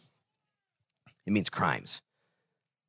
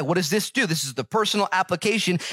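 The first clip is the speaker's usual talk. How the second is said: higher, fervent preacher voice lifting the verse; preaching at full force; 9 semitones higher than usual. Acted. Pastor to his congregation, fervent full-force preaching. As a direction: preach it out to the whole church.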